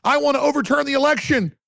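high-pitched mock of a complaining politician; mocking her quote. Mocking Pelosi's daughter on Fox, in a high mock voice. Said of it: "she goes on Fox and goes".

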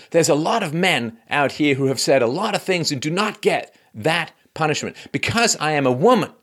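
high, emphatic complaint; mock indignation with punched key words; Serena Williams's indignant protest. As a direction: imitate an aggrieved player arguing. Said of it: "really angry".

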